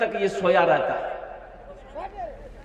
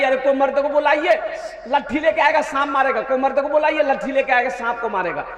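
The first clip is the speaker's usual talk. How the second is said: fast, slightly raised alarm calls for help; mock panicked women; 3 semitones higher, faster than usual. Preacher imitating women scared by a snake, fast mock cry for help. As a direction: rattle it off like frightened women shouting for a man. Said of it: "तो औरतें चिल्लाने लगी".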